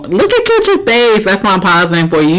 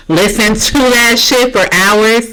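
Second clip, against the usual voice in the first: higher, slow, drawn-out exasperation; worked-up yelling; 3 semitones higher than usual. Real, not acted. Venting about screaming kids for hours, worked-up and drawn out. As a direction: stretch it out with pent-up passion. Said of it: "Sorry, I'm yelling".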